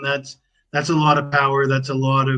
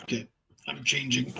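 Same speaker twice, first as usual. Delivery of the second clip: far from mic; 10 dB quieter than usual. Real, not acted. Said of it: "You still sound like you're in another room".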